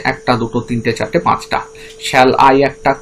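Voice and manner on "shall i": "Shall I" as one separate foot; metrical foot. Shown as a demonstration. Teacher counting five feet for students, firm separated chunk. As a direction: set "Shall I" apart as a counted unit, firmly. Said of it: "সেই পাঁচটা দলে ভাগ হয়ে যাচ্ছে".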